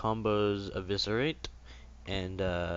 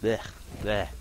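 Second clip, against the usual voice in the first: disgusted spitting noise; spitting sound; 3 dB louder than usual. Real, not acted. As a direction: spit something out, blech. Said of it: "Something in my mouth".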